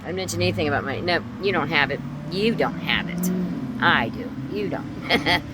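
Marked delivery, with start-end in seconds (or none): 1.0-5.4 insistent, raised contradiction; mother's arguing. Retold or imitated. Mother tells daughter she has nothing, arguing. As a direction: imitate a mother rubbing it in. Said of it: "that's how she talked".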